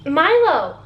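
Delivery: drawn-out call of the name, pitch swooping up and down. Real, not acted. Vlogger breaks off to call Milo, calling out. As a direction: call sharply to a misbehaving pet. Calls out to pet.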